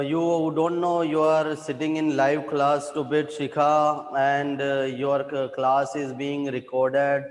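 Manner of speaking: scolding. Real, not acted. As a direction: scold a student who left the mic on. Teacher scolds student with mic on.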